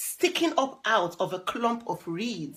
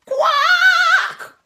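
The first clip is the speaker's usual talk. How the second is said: high, slow, loud quack with a laugh; duckling quack; 10 dB louder than usual. Acted. Reading little Tufty's quack to a child, high and playful.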